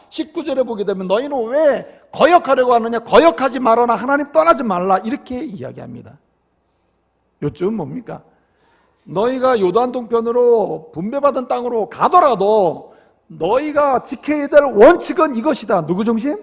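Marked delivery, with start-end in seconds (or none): 1.1-5.0 loud rebuke turning into commands; retold warning in a raised voice; acted scolding. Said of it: "막 야단을 치고 비판하는". 9.0-15.9 forceful retold lecture; preacher's raised voice, building; acted admonition. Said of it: "막 야단을 치고 얘기하고".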